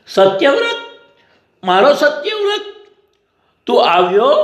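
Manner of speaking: tender wonder at a son's return; moved recognition. A narrator's reading. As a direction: reach for a long-lost son, pausing between phrases. Dying king recognises his returned son.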